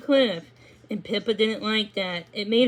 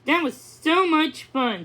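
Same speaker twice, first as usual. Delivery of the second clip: neighing; 6 semitones higher than usual. Acted. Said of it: "Stardust neighed".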